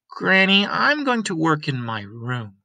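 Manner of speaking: put-on bright young girl calling out; girl Lena.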